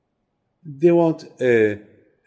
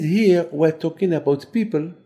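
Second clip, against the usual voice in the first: rising, ever louder wonder at the manna; preacher marvelling at his flock, growing louder and higher; amazed preaching; 5 semitones higher, 5 dB louder than usual. Retold or imitated. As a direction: build up to loud excitement over every taste. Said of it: "I said".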